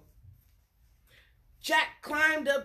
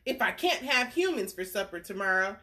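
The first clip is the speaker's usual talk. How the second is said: giant; 3 dB louder than usual. Acted. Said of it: "said the giant".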